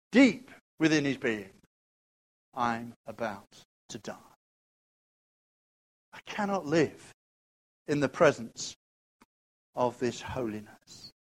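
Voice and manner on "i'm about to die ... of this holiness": soft, low voice of a doomed man; quiet dread; hushed despair. Acted. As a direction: speak it as a near-whispered confession. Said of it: "voicing Isaiah softly".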